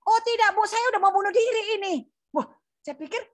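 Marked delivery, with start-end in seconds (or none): 0.0-2.0 higher, rushed imitation of a desperate caller; acted-out urgency, pitched up; retold desperate plea. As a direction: retell an urgent refusal in a raised, hurried voice. Acted desperate suicidal caller pleading.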